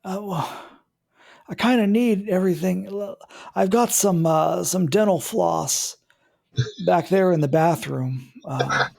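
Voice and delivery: lightly voiced old neighbor on a cane; old man voice. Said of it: "the old man voice".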